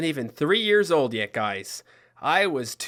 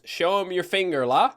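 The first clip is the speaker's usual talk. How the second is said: put-on Newfoundland accent. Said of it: "what my sister said there was".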